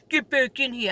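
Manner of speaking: mimicked, exaggerated New York accent; mocking New York accent. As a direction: imitate a kid aping a New York accent. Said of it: "He made fun of my accent".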